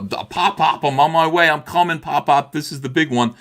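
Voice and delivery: mock-call to grandpa in heaven like a dying old man; a hint of the old junk dealer clutching his chest; Sanford and Son riff. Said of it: "a Sanford and Son riff".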